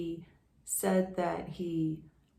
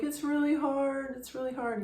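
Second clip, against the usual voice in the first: retold crying; 7 semitones higher than usual. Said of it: "He starts to cry".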